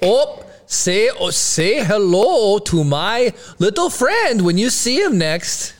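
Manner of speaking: put-on slow, drawn-out Minnesota accent. Retry of the movie quote in Minnesota accent. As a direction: stretch out the vowels in a Minnesota accent. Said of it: "doing in Minnesota accent".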